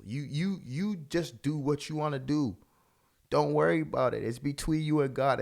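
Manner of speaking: lightly voiced devil talking someone into it; tempting devil. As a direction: push the easy permission on them, voice lifted. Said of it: "When the devil's whispering in your ear".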